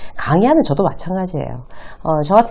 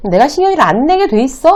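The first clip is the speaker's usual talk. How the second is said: high, indignant comeback; acted-out angry rhetorical question; quarrelling wife; 7 semitones higher, 4 dB louder than usual. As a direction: fire back in a marital spat. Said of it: "막 이러면서 싸워요".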